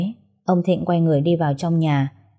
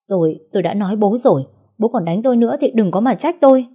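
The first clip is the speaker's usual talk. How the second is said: louder, higher guilty stammer; 4 semitones higher, 4 dB louder than usual. Acted. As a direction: stumble over the first words, then push on defensively. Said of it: "lắp ba lắp bắp".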